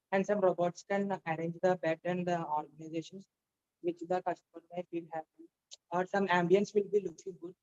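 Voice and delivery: a nervous student made to project; talking loudly. Real, not acted. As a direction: speak up boldly to the whole room. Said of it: "I want you to talk loudly".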